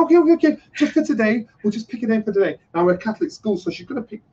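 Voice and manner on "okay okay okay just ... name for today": a hint of a teacher hushing a teary kid; soothing teacher. Teacher soothing crying boy.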